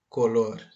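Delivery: Color with the stress on the last syllable, lor; "Color" said alone, weight on its second syllable; stress on final syllable. Shown as a demonstration. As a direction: model "Color" clearly, leaning on "lor". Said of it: "Veja a pronúncia".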